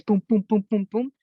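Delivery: spoken booms for pounding on metal; rhythmic mimicked knocking; imitated door banging. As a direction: punch out each boom like a fist on a door. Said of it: "all you hear is".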